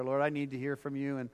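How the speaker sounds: earnest spoken prayer; leading the church in heartfelt prayer. Acted. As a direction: pray aloud before the congregation. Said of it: "would you just join me in prayer".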